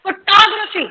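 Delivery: फोटोग्राफी as fuh-TOG-ruh-fee; second-syllable stress. Shown as a demonstration. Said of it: "stress is on top". (फोटोग्राफी में टॉ पर ज़ोर)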